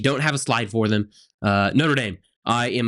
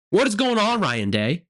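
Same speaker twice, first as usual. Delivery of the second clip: exasperated; 6 semitones higher than usual. Real, not acted. Exasperated question to coach.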